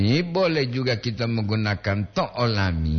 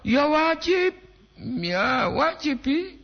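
high squeak; 13 semitones higher, slower than usual. Real, not acted. Jawab pertanyaan dengan suara tinggi.

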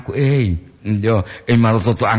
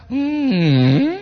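high whimpering mock-disappointed hum; hammed-up disappointed moan; 10 semitones higher than usual. Shown as a demonstration. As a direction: whine a long let-down "hmm". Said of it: "Penuh kekecewaan. Intonasi".

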